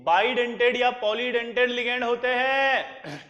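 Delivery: bidentate या polydentate spelled out slowly; slow it down for students to write; emphatic slow note-taking dictation. Shown as a demonstration. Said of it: "क्या बोला जल्दी बताओ".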